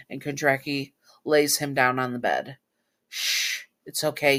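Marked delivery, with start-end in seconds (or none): 3.1-4.4 soothing shush. Acted. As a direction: gently settle a frightened partner. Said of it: "he says, strokes his hair".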